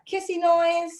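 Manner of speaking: high, drawn-out call; demonstrating the cue. Shown as a demonstration. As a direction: stretch it out high like a dog cue.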